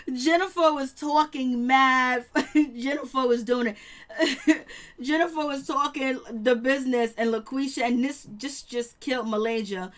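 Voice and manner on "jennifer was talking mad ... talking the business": laughing slowly. Real, not acted. Laughing retelling.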